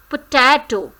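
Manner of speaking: Potato with ta stressed; potato, lean on the middle. Shown as a demonstration. Teacher modelling potato, middle syllable stressed. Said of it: "stressed is on te".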